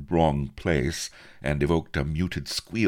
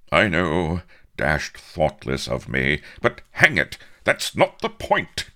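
high, loud, exasperated protest; indignant outburst, loud and emphatic; angry cry; 4 semitones higher, 7 dB louder than usual. A narrator's reading. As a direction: cry it out crossly, pitch leaping. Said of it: "cried Avery angrily".

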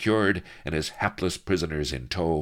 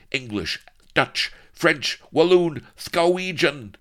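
high, loud tyrant's tirade; ranting Spanish villain; 8 semitones higher, 4 dB louder than usual. A narrator's reading. Villain threatens his enemies, grandiose ranting. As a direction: declaim grand threats with building force.

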